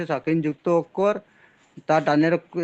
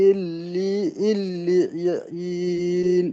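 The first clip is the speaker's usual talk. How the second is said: Quran recitation; much slower than usual. Real, not acted. Student recites after correction.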